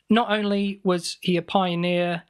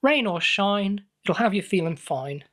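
slow advert slogan voice; ad read; 2 semitones higher than usual. Acted. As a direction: sell it like a holiday park ad. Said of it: "borrowing marketing slogans".

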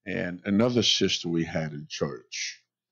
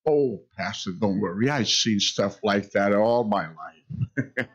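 put-on amused old lady. Grandmother reassures, laughing.

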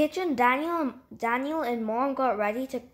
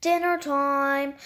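calling out; 3 semitones higher, 4 dB louder, slower than usual. Acted. Dad called.

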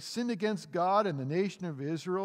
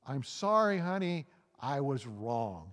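tongue-in-cheek apology; 3 semitones lower than usual. Acted. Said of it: "tongue-in-cheek".

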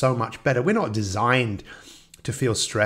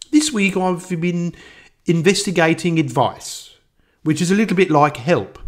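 Kevin Turvey; 6 semitones higher, 5 dB louder than usual. Retold or imitated. Impersonating the investigator reporting on advice, Birmingham accent. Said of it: "he played a character from".

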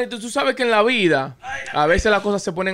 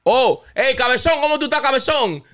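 higher, mocking nickname call; teasing greeting; 7 semitones higher than usual. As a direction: call him big-head with a tease.

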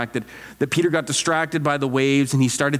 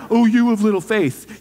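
high, louder mock reproach; mock judging; 7 semitones higher, 5 dB louder than usual. Preacher echoing how people think Jesus judged Peter, mock judging. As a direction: exaggerate the scolding in disbelief. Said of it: "Jesus is judging Peter".

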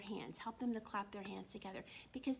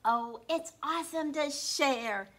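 Joe's cheerful line; 4 semitones higher, 9 dB louder, slower than usual. Acted. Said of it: "what did Joe say?".

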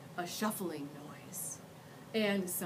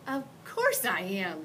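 snapping; 4 dB louder than usual. Acted. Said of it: "she snapped".

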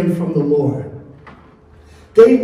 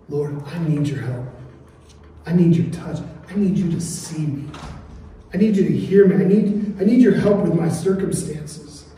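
earnest prayer; 3 dB quieter than usual. Acted. Believer asking the Lord for help, earnest prayer. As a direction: start softly and plead, gradually firmer.

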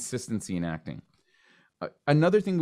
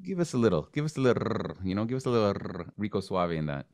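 put-on lightly hinted Latino accent with rolled R; a touch of suave Latin accent; mock Latino flair. Actor mocking casting's hint for a Latino accent, lightly suave. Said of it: "their subtle way of saying".

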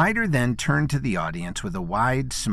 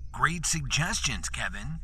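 laying it on thick; 5 semitones higher, 5 dB quieter than usual. A narrator's reading. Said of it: "laid it on a little thick".

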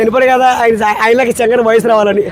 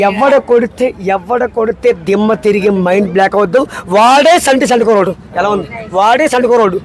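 lightly voiced cool punch line; a hint of a swaggering film hero; Pawan Kalyan dialogue; 4 semitones lower than usual. Guest repeats the punch line as another star, lightly voiced. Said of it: "Pawan Kalyan".

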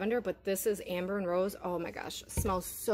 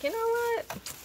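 inner voice; 14 semitones higher, slower than usual. Retold or imitated. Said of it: "So I was like".

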